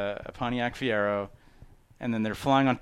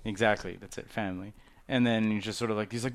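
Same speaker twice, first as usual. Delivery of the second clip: normal talking voice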